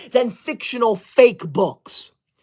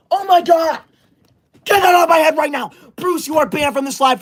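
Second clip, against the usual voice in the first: high, fast, furious yelling; outraged shout; 6 semitones higher than usual. Acted. Streamer yelling at a viewer whose crown gift covers her head, furious high shout. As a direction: shriek it, totally losing it.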